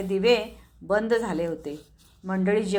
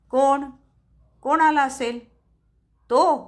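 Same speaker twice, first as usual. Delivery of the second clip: startled fear; 5 semitones higher, 5 dB louder than usual. A narrator's reading. Startled by a knock.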